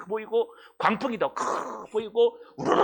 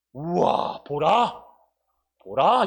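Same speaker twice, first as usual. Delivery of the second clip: a louder, building cry of wonder; awed exclamation; 3 semitones lower, 3 dB louder, much slower than usual. Shown as a demonstration. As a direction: call out behold in awe. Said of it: "감탄사예요". (감탄하며 외치듯)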